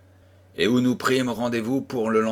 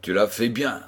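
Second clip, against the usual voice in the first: sly. Acted. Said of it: "dit-il d'un air malin".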